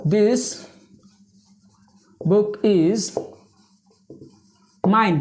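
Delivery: slow, isolated words with long gaps; word-by-word dictation; dictating while writing. Real, not acted. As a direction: pause as you write each word.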